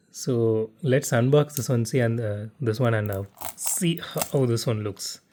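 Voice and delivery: slight stutter, halting and slow. Real, not acted. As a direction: stumble over the words a little. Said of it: "I'm stuttering a little bit".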